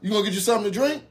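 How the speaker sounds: high-pitched imitation of a girlfriend. Girlfriend pressing her man to order, imitated in high voice. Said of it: "She like".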